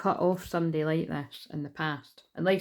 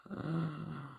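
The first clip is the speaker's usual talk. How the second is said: soft gasp of amazement; 8 dB quieter than usual. Real, not acted. Tarot reader reacts to the cards, soft amazed gasp. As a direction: let out a soft, real gasp.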